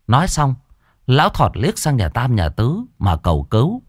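ordinary delivery

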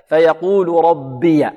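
"ربي" said as rabbiya, short a after the ي; drawn-out "فيقول", then "ربي" with fatha on the ya; voweled ya. Shown as a demonstration. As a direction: recite slowly, ending "ربي" on -ya. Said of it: "إذا وصلنا فإننا نحرك الياء".

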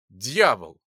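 a deep, loud panicked shout; terrified cry. Acted. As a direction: cry out the word in terror. Crowd cries out in terror.

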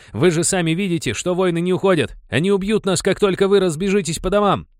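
high, loud pleading shout. Acted. Jamaica yells at the crowd from the cart, high and loud. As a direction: keep yelling over the crowd. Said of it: "закричал он".

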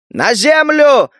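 high, slow yelled warning; roaring shout. Acted. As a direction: bellow it to save them. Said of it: "заорал Лука".

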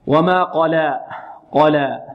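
held final vowel on قلى after a light lam; heavy qaf, light lam. Shown as a demonstration. Teacher contrasting qaf and lam, careful recitation. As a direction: recite قلى with thick q and thin l. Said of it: "واللام هنا مرققة".

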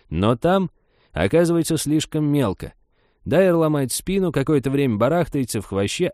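high, animated dramatic retelling; excited old woman spinning a lurid tale; enthusiastic. Acted. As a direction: act out your theory with relish. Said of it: "принялась воодушевлённо, помогая себе руками, излагать".

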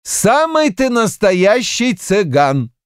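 slow, high, sure of himself; mild conviction, slowly; convinced. A narrator's reading. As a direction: state it with certainty. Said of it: "убеждённо сказал счетовод".

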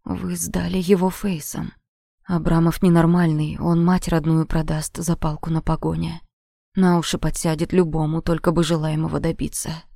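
deep-voiced guard. Adam explains in deep voice.

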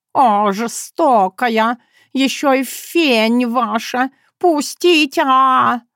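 high, slow dramatic cat plea; cat pleading. Acted. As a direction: plead with mock tragedy. Cat pleads during bath.

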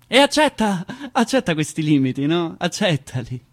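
loud barked order; mock scolding shout. People telling you to accept limits, shouted. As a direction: hammer the command at them. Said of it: "ti dicono".

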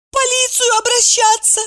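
high, tearful little squeak. A narrator's reading. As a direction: squeak it through tears. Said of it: "сквозь слёзы пискнула Евдокия". (высокий писк сквозь слёзы)

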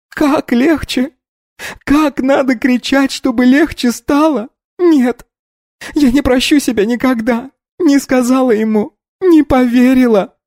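high, tearful cries of guilt; sobbing self-reproach. A narrator's reading. Polina blames herself for Pasha's death, sobbing. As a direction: berate yourself between sobs. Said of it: "рыдая".

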